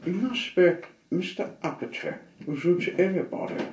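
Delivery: high, loud cheery goblin hello; squeaky goblin greeting; little goblin. Acted. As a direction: call out like a tiny chirpy goblin. Goblin voice in story.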